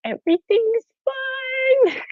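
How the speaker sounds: high, slow, mock-calm "Everything's fine."; deadpan denial as the house burns; meme squirrel calm. Squirrel sipping coffee in a burning house, mock-calm. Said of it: "and he's like".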